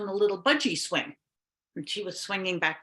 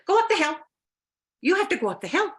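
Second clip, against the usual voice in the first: high insistent witch voice; 9 semitones higher, 4 dB louder, faster than usual. Acted.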